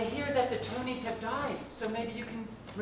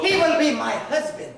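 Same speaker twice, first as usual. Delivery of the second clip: loud laughing proclamation; loud declaration; 3 semitones higher, 12 dB louder than usual. Acted. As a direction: shout it with giddy pride. Declares love, laughing loudly.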